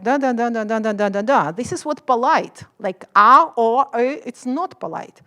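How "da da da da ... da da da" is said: loud da da da; loud Slavic rhythm. Shown as a demonstration. Imitating Slavic speech as loud da. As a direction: hammer out the da syllables. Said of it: "So it's just like".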